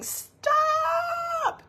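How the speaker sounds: high, drawn-out desperate shout; one long pleading yell; screamed stop. Acted. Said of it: "rest is screaming".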